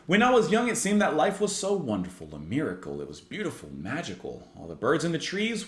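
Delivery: Agent Smith voice. Acted. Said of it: "I'm speaking like someone".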